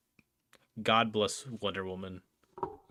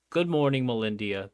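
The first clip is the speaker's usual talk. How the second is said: bright, loud hello; excited greeting; 2 semitones higher, 6 dB louder than usual. Real, not acted. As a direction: call out a cheerful good morning. Greeting a chatter.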